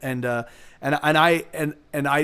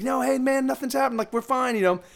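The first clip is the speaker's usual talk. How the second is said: higher-pitched, casual mock brush-off; imitated reassurance; 6 semitones higher than usual. Boyfriend telling a friend nothing happened, imitated reassurance. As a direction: play down the trouble as the boyfriend would.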